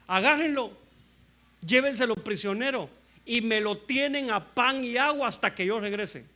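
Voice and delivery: commanding king. Retold or imitated. Acab orders the prophet jailed, mock commanding voice. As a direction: give orders as an acted angry king. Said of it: "qué dijo Acab".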